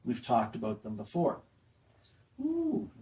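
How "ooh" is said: high, drawn-out playful "Ooh"; mock surprise. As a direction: pretend to spot something, teasing the class. Teacher feigns noticing a bird.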